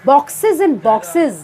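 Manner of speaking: slow, deliberate stress on each "boxes". Shown as a demonstration. Teacher repeating the poet's phrase for emphasis, slow stress on boxes. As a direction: spell out the repetition, weighting both words "boxes". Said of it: "इस word पे ज़्यादा stress देने के लिए".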